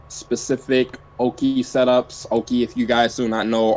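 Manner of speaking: normal talking voice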